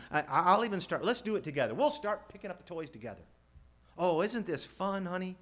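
a hint of forced playful cheer; lightly voiced parent making tidying sound fun; cajoling parent. Parent coaxing child into tidying.

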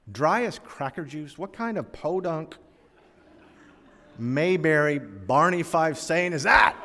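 exasperated comic rant in broken-up phrases; mad retort. Retold or imitated. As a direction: act out scornful disbelief, building to a loud, drawn-out finish. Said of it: "Well, I got mad".

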